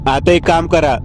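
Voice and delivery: lightly acted tearful plea of an old woman; crying. Grandmother bitterly pleading with the family, mildly tearful. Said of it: "आजी रडत बोलली".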